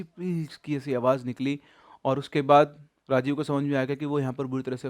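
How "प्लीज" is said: weak throaty squeeze of "प्लीज"; a dying croak of a plea; faint choked please. Acted. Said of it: "सिर्फ एक गले से हल्की सी".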